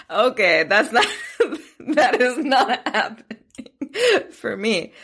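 laughing it off, high and amused; half-laughing, brushing the idea away; laughing dismissal. Retold or imitated. Host mocking early-riser routines, laughing. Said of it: "And I'm like".

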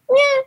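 put-on tiny high baby squeak; newborn squeak imitation. Mother imitating her newborn's first little squeak. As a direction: mimic a newborn's little cry. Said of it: "he's made little".

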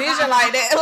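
laughing through the line; chuckling while quoting. Retold or imitated. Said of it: "And I'm like".

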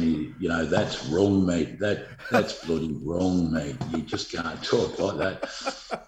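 lightly imitated Irish accent, slow and low; retold telling-off with a hint of Irish. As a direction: scold a mate in a mock Irish lilt. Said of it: "in that rich Irish accent saying".

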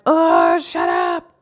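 a sudden loud, deep, growled "shut up"; irritated snap. Retold or imitated. Mom losing patience with her whining kid, loud irritated snap. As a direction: bark it at the kid like you've had enough.

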